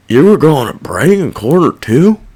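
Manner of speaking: near-plain retelling of the guard's question; just report what he asked; a light, matter-of-fact echo of the guard; quoting the guard. Retold or imitated. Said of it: "That's what he said".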